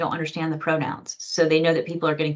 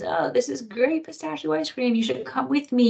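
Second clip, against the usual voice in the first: excited; 7 semitones higher than usual. Retold or imitated. Enthusiastic friend quote.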